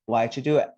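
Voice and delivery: "Why'd you do it" with "Why'd you" as "whyju"; pronunciation model. Shown as a demonstration. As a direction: blend "Why'd you" before "do it". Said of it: "let's pronounce it together".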